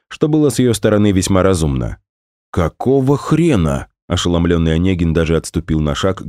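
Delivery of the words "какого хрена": stunned outburst. Acted. Shocked friend swears.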